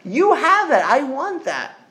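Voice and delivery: a smart person asks for that connection, lightly pleading; longing seeker. Retold or imitated. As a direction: ask with mild longing. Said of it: "a smart person would say".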